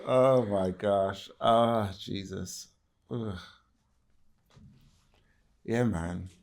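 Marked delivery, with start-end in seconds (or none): 0.0-3.4 shaky sigh. Real, not acted. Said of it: "I'm so moved".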